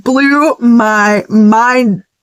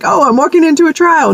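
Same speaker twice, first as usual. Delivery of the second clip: higher, dragging mock gloom; mock dread; 6 semitones higher than usual. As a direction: sigh it out like a doomed pilgrim. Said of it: "be like".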